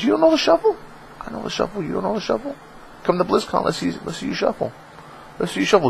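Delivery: high, soft teasing singsong; mock taunting. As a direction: needle them playfully.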